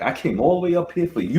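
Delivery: high, loud frustrated yell; yelling at the droid. Retold or imitated. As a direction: yell it at the passenger seat. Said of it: "I was just yelling at it".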